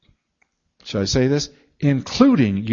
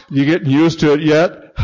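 teasing packer; 5 dB louder than usual. Retold or imitated. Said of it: "one of them says".

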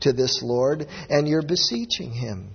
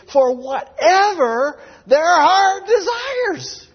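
preacher's shout; 13 semitones higher, 7 dB louder, much slower than usual. Acted. Preacher's climax on heart's desire.

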